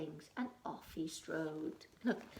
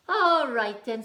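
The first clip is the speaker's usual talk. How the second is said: louder, higher grumpy troll; 5 semitones higher, 15 dB louder than usual. Acted. Troll giving in to the spider, grumpy and loud. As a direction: grumble it like a beaten troll.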